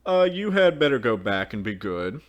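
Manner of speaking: put-on girl's sudden dismissal. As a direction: cut in suddenly. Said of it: "the girl added suddenly".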